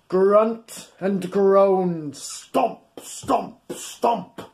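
put-on slow, drawn-out rhyme for children; rhyme reading. A narrator's reading. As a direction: stretch out the words for the little ones.

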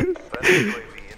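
very high giggle; laugh. Real, not acted. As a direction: giggle high after blurting. Amused mid-match.

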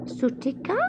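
high, hesitant gasp of horror; horrified gasp. A narrator's reading. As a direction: gasp the name in disbelief. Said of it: "gasped with horror".

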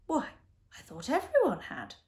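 mild surprise, pitch lifted; puzzled, as if everyone should know; surprised. A narrator's reading. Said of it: "in a surprised tone".

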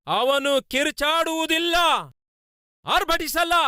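ringing sermon climax; impassioned proclamation. Real, not acted. Preacher proclaiming the key verse.

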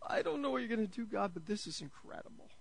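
giddy, laughing wonder; giddy disbelief. Pretend. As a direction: act out giggling over a huge offering. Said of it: "we're just like".

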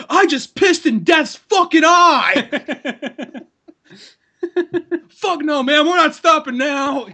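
high, cackling, drawn-out boast through laughter; laughing bravado. Retold or imitated. Wes bragging to his friend after killing the owl, laughing high bravado. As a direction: crow it like he just beat death. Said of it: "Wes, he's like".

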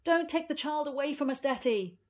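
high, loud pleading call; beseeching. Acted. Granny calling after Detty, loud beseeching plea. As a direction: beg from the window. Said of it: "called beseechingly".

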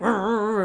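mock old-man grumbling noises; imitated grumpy grumbling. Old man grumbling at a cyclist, mock grumpy. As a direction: grumble wordlessly, imitating a grouch. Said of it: "like, grumpily, he's just like".

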